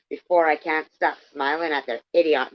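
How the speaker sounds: reading Bunny's line in an attempted English accent. Reader trying Bunny in an English accent. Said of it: "do it in an English accent".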